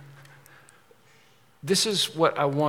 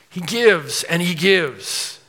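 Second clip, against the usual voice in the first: slow emphasis; 3 semitones higher, 4 dB louder, much slower than usual. Real, not acted. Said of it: "preaching emphasis".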